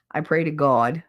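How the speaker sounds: "God" as GAWD; Jersey accent. Shown as a demonstration. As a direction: round the vowel of "God" to AW. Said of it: "I say God".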